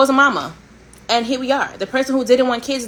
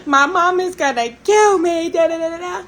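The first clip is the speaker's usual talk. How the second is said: panicked retelling; 10 semitones higher, 4 dB louder than usual. Retold or imitated. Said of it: "I'm like".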